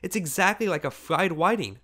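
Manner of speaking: high-pitched amused mockery; giggly. A narrator's reading. Girl ridiculing the old woman's fur, giggly. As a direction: pitch it up, tickled by the comparison. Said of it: "giggled the girl".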